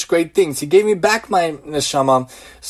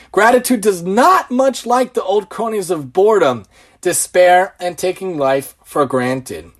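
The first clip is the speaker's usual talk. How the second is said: reading a quote. Shown as a demonstration. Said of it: "this quote is for you".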